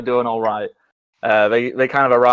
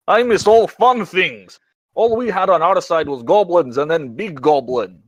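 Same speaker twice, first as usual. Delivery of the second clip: higher-pitched, wistful character grumble; sighing complaint; 5 semitones higher than usual. Acted. Ernst moaning about missing all fun things, sighing complaint. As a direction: lament it in a raised character voice. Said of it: "kind of sighs and goes".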